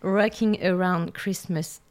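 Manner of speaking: song title in a French-accented English; French speaker tackling an English title. Real, not acted. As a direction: say the English title with care, slowly. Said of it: "désolée pour mon accent anglais".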